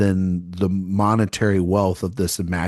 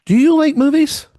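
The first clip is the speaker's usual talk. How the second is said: lockjaw voice; 5 dB louder than usual. Pretend. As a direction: talk through a locked jaw, upper-crust. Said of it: "shouldn't have done lockjaw voice there".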